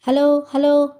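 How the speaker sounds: flustered. A narrator's reading. Anuradha answering Nalini on the phone, flustered. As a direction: call down the line in a mild panic. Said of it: "గాబరాగా అంది".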